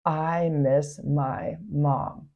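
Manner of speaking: soft and slow, only reporting the scream; hushed slow recounting of the boy's cry; quiet, slow retelling. Retold or imitated. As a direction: tell the words gently, no scream at all. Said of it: "he screamed out".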